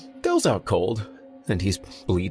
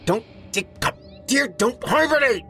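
high, exasperated snap building louder; sharp, raised-pitch irritation; snapped; 4 dB louder than usual. A narrator's reading. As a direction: snap back at a foolish question. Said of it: "Jared snapped".

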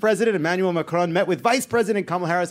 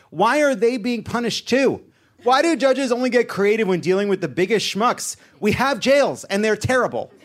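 indignant rant; 5 semitones higher than usual. Real, not acted. Host venting at the judge's punishment, outraged. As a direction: demand to know why, outraged.

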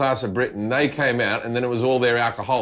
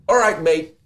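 put-on gamer kid; 4 semitones higher, 4 dB louder than usual. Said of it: "he'll be playing computer games with his mates".

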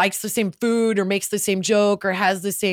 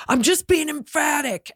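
higher-pitched, fired-up retold protest; emphatic; 5 semitones higher than usual. Texan husband defending himself to wife, emphatically. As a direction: imitate an emphatic self-defence. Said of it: "real fired up and emphatic".

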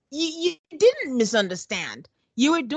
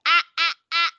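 dismissive ah ah ah; 4 semitones higher, 4 dB louder, faster than usual. Retold or imitated. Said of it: "This is verbatim, guys".

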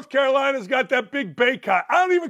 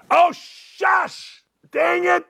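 mock outburst; 8 semitones higher, much slower than usual. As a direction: squeak out a fake "oops!".

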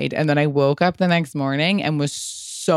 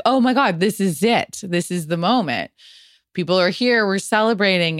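high, breathless excitement; excited; 4 semitones higher than usual. Retold or imitated. Bride telling friends, giddy and high. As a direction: gush like the big moment finally came. Excited arrival at rehearsal dinner.

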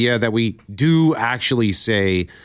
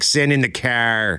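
slow Boston "Send in the car" with an r-less "car"; Boston accent. Retold or imitated. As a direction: do the Die Hard Boston line. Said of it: "The Boston accent".

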